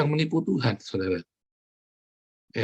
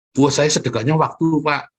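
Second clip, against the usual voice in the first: mock congregant excuse; 3 semitones higher, 5 dB louder than usual. Preacher mocking a churchgoer who gives only time, loud whine. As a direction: ham up the stingy churchgoer.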